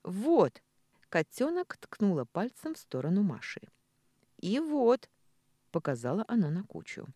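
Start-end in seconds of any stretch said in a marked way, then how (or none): 0.0-0.6 возмущённо указывает. Acted. Дочь возмущённо показывает. 4.4-5.1 возмущённо указывает. Acted. Дочь возмущённо показывает.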